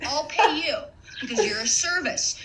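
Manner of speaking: laughing, outraged comeback; half-laughing mock outrage; incredulous retort. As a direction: scoff at them in disbelief. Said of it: "I said".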